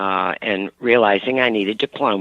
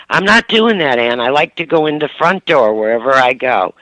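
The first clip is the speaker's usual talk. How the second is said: stubborn mother; 2 semitones higher than usual. Retold or imitated.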